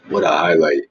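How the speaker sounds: "What a highlight" muttered again, deadpan; dry sarcasm. Pretend. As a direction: mutter it dryly to yourself.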